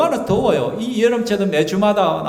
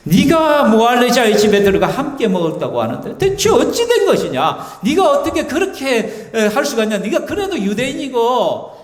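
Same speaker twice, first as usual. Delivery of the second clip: mock interrogation; 4 semitones higher than usual. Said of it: "막 이렇게 따지는 것이죠".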